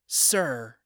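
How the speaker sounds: mumbled. Acted. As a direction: mumble it under breath. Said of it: "Luke mumbled to him".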